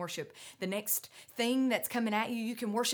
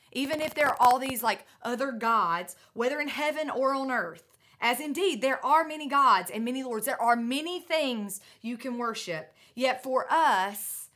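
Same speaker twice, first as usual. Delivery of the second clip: forceful reading; 6 dB louder than usual. Real, not acted. Preacher reading scripture with force.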